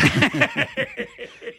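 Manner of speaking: sudden high laugh with no words; cracking up mid-sentence; high burst of laughter. Real, not acted. Risa a mitad de frase. (carcajada aguda)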